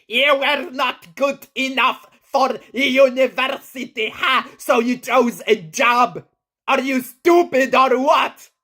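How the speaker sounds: very high, loud, clicky nagging voice; high pitch, clicky consonants. Shown as a demonstration. Flirting attempt he is embarrassed by, high and clicky. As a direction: squeak it out high with hard clicks. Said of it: "this high pitch and the clicky consonants".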